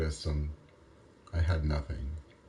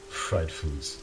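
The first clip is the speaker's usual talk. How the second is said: Fried foods said with a broad American drawl; a put-on American twang; mock American drawl; 4 dB quieter than usual. Shown as a demonstration. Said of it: "come on".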